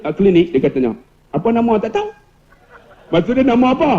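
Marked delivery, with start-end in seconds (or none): 1.3-2.1 higher Kedah question, rising on "tahu"; Kedah dialect. Retold or imitated. Kedah patient asking at the clinic, imitated Kedah dialect. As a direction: lift "tak tahu" like a Kedah asker. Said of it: "kalau orang Kedah pergi".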